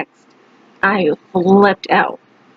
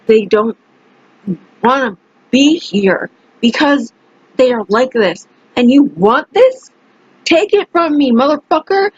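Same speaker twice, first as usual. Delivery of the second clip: cussing him out. Retold or imitated. Retelling how she cussed out the man, angry. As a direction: lay into him, climbing as you go. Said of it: "cussing him out so bad".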